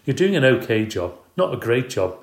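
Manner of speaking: put-on wife belittling his care of the kids; cutting remark. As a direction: deliver the put-down.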